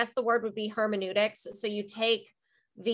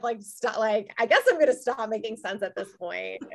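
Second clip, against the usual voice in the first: stoned; 3 semitones higher, 6 dB louder than usual. Real, not acted. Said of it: "that edible is kicking in".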